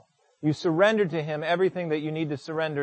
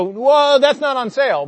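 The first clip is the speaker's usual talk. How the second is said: startled exclamation; 6 semitones higher, 7 dB louder than usual. Retold or imitated. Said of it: "I was about to go".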